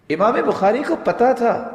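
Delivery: high and loud, کو held long and falling; emphatic call. Real, not acted. Preacher stressing to the congregation, high emphatic call. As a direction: ring out ان کو پتا تھا with کو high.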